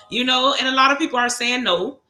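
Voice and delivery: words through laughter; laughing. Real, not acted. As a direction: still laughing while she talks. Laughing while talking.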